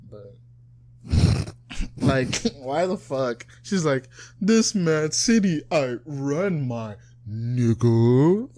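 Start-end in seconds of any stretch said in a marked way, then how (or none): 4.4-8.5 mock rap line with NIGGA drawn out and rising; question-like tune. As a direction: stretch NIGGA slowly up into a question. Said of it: "it sounds like a question".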